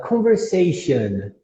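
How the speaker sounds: slow "conversation" ending in "shun"; correct "an" ending. Shown as a demonstration. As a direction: weaken the final vowel of "conversation". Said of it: "Mais um exemplo". ("conversation" devagar, com final reduzido)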